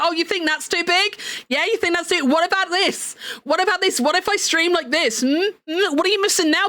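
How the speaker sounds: teasing, pushy questions; mock taunting. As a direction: goad the complainer with playful spite. Taunting the complainer in imagined retort.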